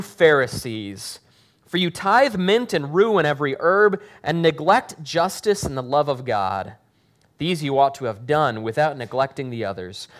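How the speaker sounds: steady, earnest Bible reading to the congregation; scripture reading. Acted. Pastor reading the gospel aloud to the congregation, earnest. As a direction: read the passage aloud with weight.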